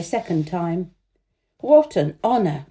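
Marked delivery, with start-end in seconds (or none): 1.6-2.7 a mild exclamation, a bit louder; lightly voiced courtly cry; courtiers cry out. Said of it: "cried all the courtiers".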